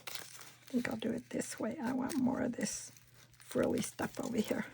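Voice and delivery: whispered explanation. Real, not acted. Crafter explaining her trimming, whispered. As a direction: confide it in a whisper. Aside while arranging.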